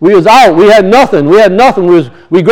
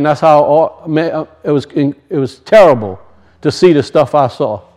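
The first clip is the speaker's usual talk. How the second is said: tearful veteran; 6 semitones lower than usual. Retold or imitated. Preacher voicing a crying young veteran recalling the war, hushed and tearful. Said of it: "and he's crying".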